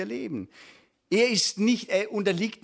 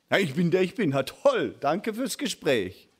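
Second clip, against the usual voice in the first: sarcastic brush-off of a useless answer; dryly dismissive, as if ending a pointless chat; mock unimpressed. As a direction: imitate a let-down listener. Mimics unimpressed listeners hearing God's name.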